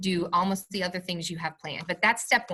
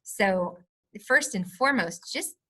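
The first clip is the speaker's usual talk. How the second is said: heartfelt, lively plea with higher pitch; passionate; 4 semitones higher than usual. Real, not acted. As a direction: speak up passionately for something you believe in. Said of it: "the passion in your voice".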